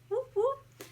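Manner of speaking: high, loud whoop whoop; cheer. Real, not acted. Shout-out to her Patreon supporters, high loud cheer.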